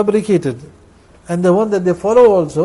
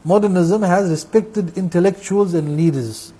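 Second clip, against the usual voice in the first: slow reading of a quote; slower than usual. Shown as a demonstration. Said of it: "See what they say, modernists".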